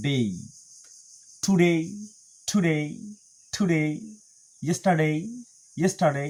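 "টুডে" with a clear DAY-ee glide; "ইয়েস্টারডে" ending in full -dei. Shown as a demonstration. Teacher drills words ending in day, full "ডেই" glide. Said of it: "ডেই বলবো".

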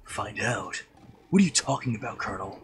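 lightly voiced Snake; a hint of the stealth soldier. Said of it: "snake voice".

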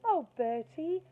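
high, loud wail, slow. A narrator's reading. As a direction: wail in dismay at the mess. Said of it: "she wailed".

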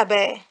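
"با" as the letter B with an A vowel; short vowel fatha. Shown as a demonstration. Teacher showing the short vowels on baa, fatha. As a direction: say "با" as a fatha syllable. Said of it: "مثلًا الفتحة".

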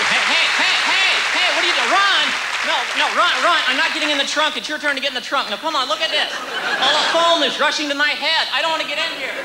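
panicked puppet. Acted. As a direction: squeal in protest as the puppet. Puppet protests being stuffed away.

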